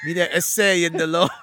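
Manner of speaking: shouted, hammed-up Mexican accent. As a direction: yell the line in a mock Mexican accent. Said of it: "so I did it with a Mexican accent".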